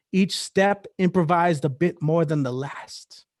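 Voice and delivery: measured spoken-word poem with lingering words; poetry recital. Acted. Poet performing for listeners, spoken-word recital. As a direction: recite it line by line, drawing out key words.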